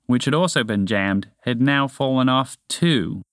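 plain reading voice

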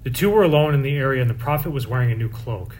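measured, solemn scripture proclamation; liturgical reading. Acted. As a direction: proclaim it like a lector at Mass. Proclaims the Mass readings aloud.

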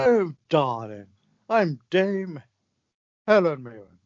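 slow, airy hammed-up dame; mock dame voice. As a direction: drawl it like a grand lady. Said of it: "Whose voice is that".

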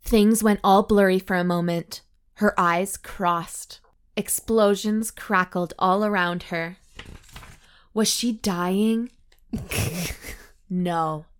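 deliberate storytelling with dramatic pauses; story narration. A narrator's reading. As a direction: draw out the suspense as you read. Reads the story aloud.

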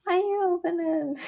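small, high, soft mock-girl voice; quiet high-pitched girl impression; imitating the girl. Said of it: "the girl's like".

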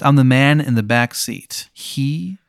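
slow, ominous self-introduction; man of smoke. Acted. Smoke-faced man in the back seat introducing himself, slow ominous voice. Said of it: "his entire face is just, like, a plume of smoke".

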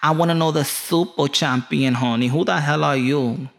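a hint of a sassy, indignant wife; lightly voiced wife, pitch lifting in disbelief; wife challenging husband. Wife demands to know who the champion is, lightly mocked indignation. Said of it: "You tell your wife, like".

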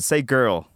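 put-on "girl" with a full American r; American pronunciation. Long Island friend prompting him, "girl" with American r. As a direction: lean on the r in "girl". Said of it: "He said".

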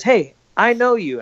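high, slow mock cop; drawn out, smug recognition; slow knowing cop. Officer recognizing the buddy, slow and high.

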